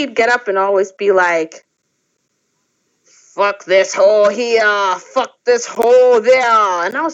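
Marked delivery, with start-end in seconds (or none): 3.0-6.8 put-on heavy, slow, thick Slavic accent. Retelling what a man always said on getting up, in a thick Slavic accent. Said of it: "He had a thick Slavic accent".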